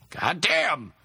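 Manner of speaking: contained yell of shock; startled scream. A narrator's reading. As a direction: cry out as if suddenly yanked. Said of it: "he screamed as he was yanked".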